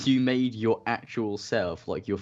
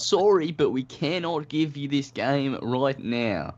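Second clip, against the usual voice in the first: stiff company rep; 6 semitones higher, much slower than usual. Retold or imitated. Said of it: "I go".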